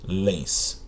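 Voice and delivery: "pólens" with a clear stress on "pó"; stress demo. Shown as a demonstration. Teacher showing students the stressed syllable, slowly. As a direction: say "pólens" and lean on "pó". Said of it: "penúltima sílaba tônica".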